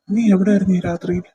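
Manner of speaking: loud, stern demand for an answer; stern confrontation. Acted. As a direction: confront her like a protective older brother. Brother confronts sister out late.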